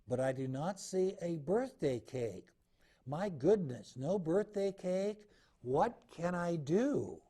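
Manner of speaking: a hint of an anxious young bear cub; little bear voice. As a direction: read it as a fretting little bear.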